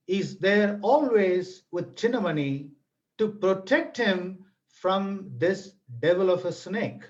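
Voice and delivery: grave storyteller voice, unhurried; story narration. A narrator's reading. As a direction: let the danger land word by word. Narrates the farmer's death.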